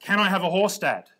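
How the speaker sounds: a hint of a hopeful child; child asking Dad. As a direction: plead lightly like a kid wanting a horse. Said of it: "my example is this".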